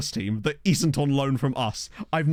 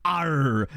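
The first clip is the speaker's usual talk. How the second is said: pirate arr. Pretend. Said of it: "someone said it sounded like a pirate".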